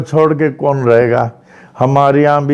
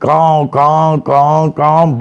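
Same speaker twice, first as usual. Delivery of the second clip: imitated crying. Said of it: "ऐसे चिल्ला रही थी".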